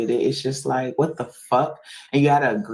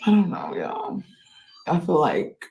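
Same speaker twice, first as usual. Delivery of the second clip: whispered; 5 semitones higher than usual. Real, not acted. Whispered despair.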